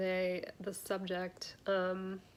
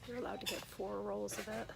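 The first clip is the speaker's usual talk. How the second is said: hushed excited whisper; 7 dB quieter than usual. Real, not acted. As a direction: whisper it like a secret. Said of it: "I don't know why I'm whispering".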